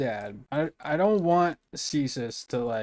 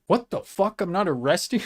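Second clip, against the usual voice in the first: high, louder amazed cop voice; pitched-up mock "What the fuck?"; 7 semitones higher, 5 dB louder than usual. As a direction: play a baffled cop, hammed up. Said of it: "the cop was like".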